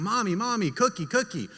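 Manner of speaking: lightly voiced pleading toddler; a hint of a kid nagging mom; begging little kid. Little girl begs her mom for cookies, pleading.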